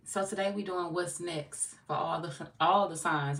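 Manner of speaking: talking around a cough drop; sucking a hard candy while talking; cough drop in mouth. Real, not acted. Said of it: "I got a cough drop in my mouth".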